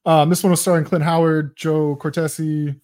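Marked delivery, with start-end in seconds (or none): 1.6-2.7 slightly numb mouth from talking all day; numb face. Real, not acted. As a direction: speak with a tired numb face. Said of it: "My face is numb".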